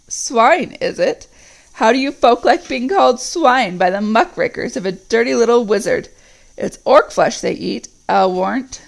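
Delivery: scornful orc chief; taunting Uruk captain. Acted. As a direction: throw the insult back at them. Ugluk taunts the northern orcs.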